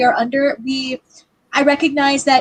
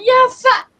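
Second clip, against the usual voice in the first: dazed squeak; 12 semitones higher, 5 dB louder than usual. Retold or imitated. Dazed after hit in chest.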